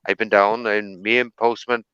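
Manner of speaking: casual mock Welsh accent demonstration; put-on Welsh-style accent. Shown as a demonstration. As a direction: chat away in an imitated Welsh accent. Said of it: "put on this accent".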